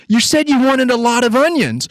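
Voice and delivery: high, squeaky protest; squealed fake-innocent excuse; mock self-defence. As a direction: argue back while nearly cracking up. Retold self-defence, cracking up.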